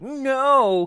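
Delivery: sudden loud high no; shouted no. Retold or imitated. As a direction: blurt out a shocked no. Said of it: "Joseph Gordon-Levitt's like".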